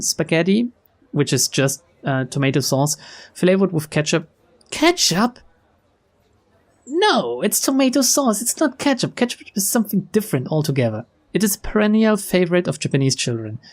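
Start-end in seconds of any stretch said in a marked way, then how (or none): 4.7-11.1 high-pitched disbelief; incredulous objection. Real, not acted. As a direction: protest way up high, as if appalled. Reader objects to ketchup description.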